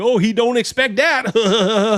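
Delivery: high, laughing, chuckling through the words, very slow. Retelling how commenters laughed at a video: imitating people laughing while talking. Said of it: "a bunch of brothers and sisters laughing".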